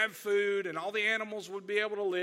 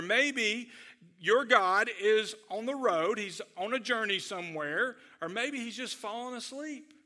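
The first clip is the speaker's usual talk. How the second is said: lightly taunting, with lifted pitch; mocking further; 3 semitones higher than usual. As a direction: needle them with each new suggestion. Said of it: "then he pushes even further".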